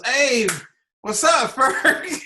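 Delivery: bright call across the barbershop, imitated; mock excited greeting. Barber friend's greeting retold.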